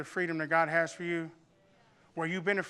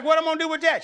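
much higher, louder mock disbelief; incredulous mom; 9 semitones higher, 9 dB louder, much faster than usual. Mom seeing the tree branch her son brought, high incredulous cry. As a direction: sound baffled at the giant branch. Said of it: "She'd be like".

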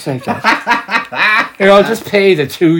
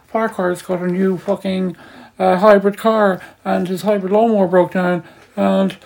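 Fintan; 6 semitones higher than usual. Retold or imitated. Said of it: "then Fintan said".

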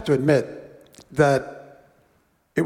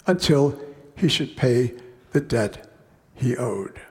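measured, unhurried Bible reading; slowing on the king's sentence; scripture reading. Acted. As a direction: read the parable to the congregation. Reads scripture passage aloud.

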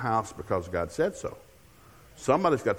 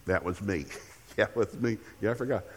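understated, subdued concession in an acted exchange; sheepish admission; 3 semitones lower, 6 dB quieter than usual. Child conceding to a parent who listed favors, sheepish. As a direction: quietly own up, a little lower.

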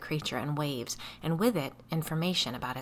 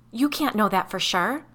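shrill; 5 semitones higher, 6 dB louder than usual. Acted. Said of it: "Biddy's voice was shrill".

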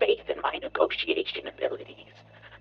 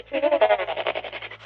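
booming megalomaniac bug ranting; evil villain rant; 7 semitones higher, 5 dB louder than usual. Acted. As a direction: roar it at the puny humans. Villain gloats over humanity.

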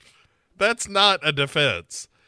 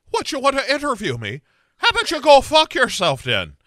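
higher, louder mock outburst; angry retort; 8 semitones higher, 4 dB louder than usual. Sarah snaps at Dylan over his interview offer, angry and loud. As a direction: snap back with rising anger. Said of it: "she's like".

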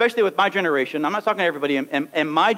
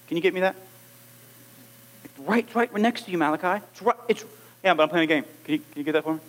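put-on lazy kid whine; 4 semitones lower, 5 dB quieter, much faster than usual. Kid asks for item nearby.

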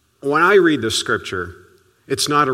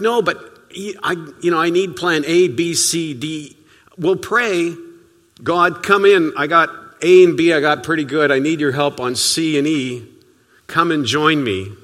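freaking out; 3 semitones higher, 4 dB louder than usual. Retold or imitated. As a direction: rattle off the plans like a worried parent. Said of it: "I was freaking out".

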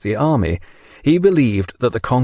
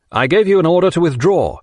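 angry shout, pitched higher; 6 semitones higher, 3 dB louder than usual. A narrator's reading. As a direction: shout the order. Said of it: "he shouted".

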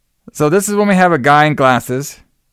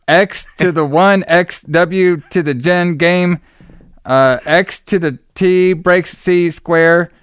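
higher and slow, reciting fake formulas like a nerd; slow, higher mock-scientific recitation; mock science talk; 3 semitones higher, much slower than usual. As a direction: parody their pompous math jargon, slowly. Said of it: "they start saying science talk".

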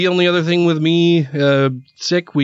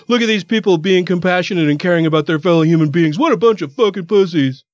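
mocking sneer; 4 semitones higher than usual. Mocking conservatives' imagined comedy.

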